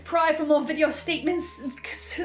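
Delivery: frantic hunger. Acted. Hungry frantic build.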